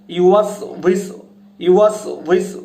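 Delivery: ইউয়াস উইসু with a clear ও lip sound; correct pronunciation demo. Shown as a demonstration. Teacher repeats the correct form for viewers. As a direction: say ইউয়াস উইসু carefully, lips slightly open. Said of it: "উচ্চারণটা হবে কীরকম".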